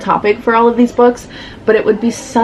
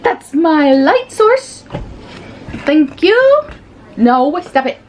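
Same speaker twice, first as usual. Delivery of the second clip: high mock indignation; 9 semitones higher, slower than usual. Real, not acted. Scolding pet blocking light.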